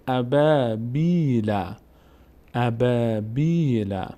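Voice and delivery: ابا، بی، لا syllable by syllable, "aa" and "ee" held; long vowels. Shown as a demonstration. Teacher joining the syllables for learners, long vowels. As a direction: stretch با and بی in ابا، بی، لا.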